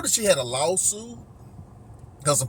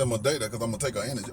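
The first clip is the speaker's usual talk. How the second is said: mocking quote; 11 semitones lower, 11 dB quieter, much faster than usual. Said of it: "I said".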